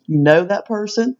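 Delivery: normal talking voice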